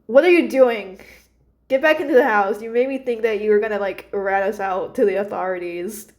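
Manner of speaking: lightly exasperated telling-off, loud at the start; mild scolding. Acted. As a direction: mildly order a runaway back indoors. Celine scolds the runaway Cheddar.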